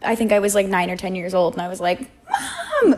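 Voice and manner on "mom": high, loud call for mom. Retold or imitated. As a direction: yell for your mom as a scared kid. Kid calling mom at Tower.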